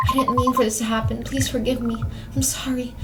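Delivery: understated sobbing plea; tearful apology. Acted. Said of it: "your own ragged sobs".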